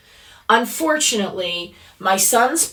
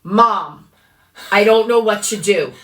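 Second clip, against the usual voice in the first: panicked son; 5 dB louder than usual. Retold or imitated. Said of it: "panicked phone call".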